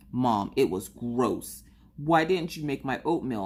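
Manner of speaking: lightly imitated upset kid; pouty complaint to mom, a touch drawn out; Maggie. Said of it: "the way she was acting".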